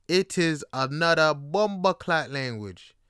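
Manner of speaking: slow, emphatic Jamaican Patois; Jamaican Patois accent. Shown as a demonstration. Demonstrating patois as a language.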